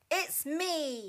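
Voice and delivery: a hint of a grunt; grunting big goat. A narrator's reading. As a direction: announce yourself as the big goat. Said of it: "he grunted".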